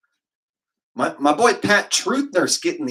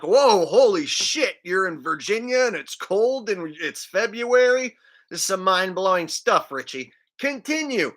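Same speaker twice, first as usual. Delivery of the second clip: higher, sarcastic fake awe; mock amazement; 5 semitones higher, 3 dB louder than usual. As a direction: pretend to be blown away by something trivial. Mocking reply to Richie.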